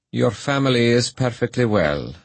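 lightly voiced gentle magistrate. A narrator's reading. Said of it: "said Mister Kerwin with gentleness".

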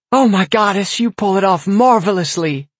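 high, giddy, laughing; laughing shriek. A narrator's reading. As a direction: shriek through tears of laughter. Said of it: "she shrieked as she wiped tears".

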